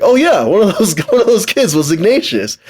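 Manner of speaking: high, mock-eager claimant; imagined storyteller. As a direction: imitate someone eagerly making it up. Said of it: "somebody was like".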